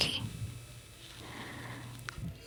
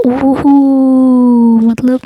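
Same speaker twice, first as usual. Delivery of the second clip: drawn-out, louder "ओहो" of fake shock; playful teasing gasp of surprise; mock surprise; 4 semitones higher, 5 dB louder, much slower than usual. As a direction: stretch "ओहो" out as if caught off guard.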